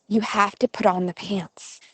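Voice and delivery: mother's firm but restrained instruction; retold mother, patience still intact; trying to be patient. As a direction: hold it in, say it evenly. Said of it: "she's trying to be patient".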